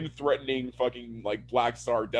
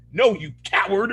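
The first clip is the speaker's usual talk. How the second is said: raised-pitch mock insult; retold scornful heckle; scornful outburst; 5 semitones higher, 4 dB louder than usual. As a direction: imitate someone angrily shouting him down. Retold group shouting down Walt.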